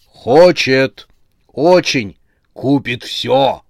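loud, punchy exclamations; eager sales chorus. A narrator's reading. Talking heads urge a hesitant customer to buy, eagerly. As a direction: chime in like eager merchandise.

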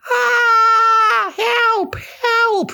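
terrified animal yelling for help; panicked cry for help. Acted. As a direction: shriek for help like a fleeing animal. Animals running in fear.

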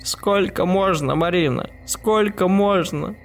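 high, slow, desperate pleading; hysterical whisper. A narrator's reading. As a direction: beg her daughter in a hysterical hush. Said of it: "истерично зашептала хозяйка".

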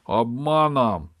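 loud, drawn-out, high accusation; villain's slow, loud accusing cry; hissed accusation. A narrator's reading. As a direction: stretch the word out venomously, voiced and strong. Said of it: "прошипел Чёрный Волк".

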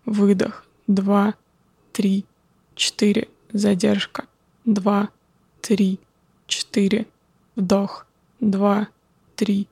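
calm, slow counting of breaths. Acted. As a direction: count the breaths slowly and calmly. Guides a breathing exercise.

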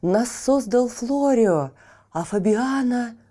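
high, loud furious outcry; angry shout. Acted. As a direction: hurl the accusation in rage. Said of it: "гневными голосами закричали".

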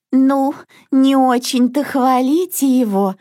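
lightly grumbling mother duck; mild grumble. Acted. Mother duck scolds praising ducklings, mild grumble. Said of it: "проворчала мама-утка".

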